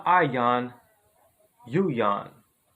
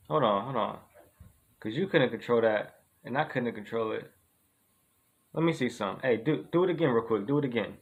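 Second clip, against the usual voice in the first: hushed scheming; 5 semitones lower, 5 dB quieter than usual. Acted. Testing the yawn theory.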